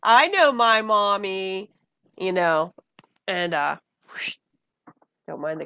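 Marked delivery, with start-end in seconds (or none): 0.0-1.7 voicing the baby. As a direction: speak for the newborn, slowly. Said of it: "you hear the nurse go".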